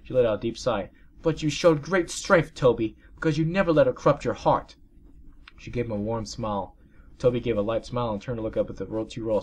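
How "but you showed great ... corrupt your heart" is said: aunt voice. Acted. Birdie voiced.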